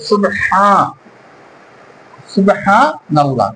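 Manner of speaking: সুবহানাল্লাহ said slowly with the long আ held for one beat; stretched alif. Shown as a demonstration. Teacher showing students how to stretch the alif in সুবহানাল্লাহ. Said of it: "এক আলিফ টানিয়া পড়িতে হবে".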